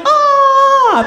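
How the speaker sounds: high mock scream while falling; high-pitched falling yell, played for laughs. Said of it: "so I am screaming".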